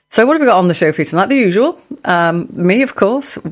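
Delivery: rough, gravelly voice from dust. Real, not acted. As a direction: speak through a gravelly, rough throat. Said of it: "with the gravelly voice this evening".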